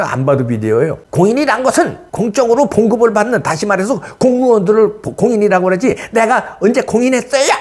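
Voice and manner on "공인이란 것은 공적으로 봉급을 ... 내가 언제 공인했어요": higher-pitched mock protest of an opponent; put-on high voice, parroting an opponent; mocking imitation. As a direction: imitate his indignant excuse in a raised pitch. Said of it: "이런 놈들은 또 뭐라 그러냐면요".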